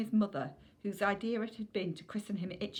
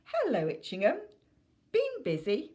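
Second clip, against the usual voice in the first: mock-sweet greeting; 7 semitones higher, 6 dB louder than usual. Mum greets son before scolding.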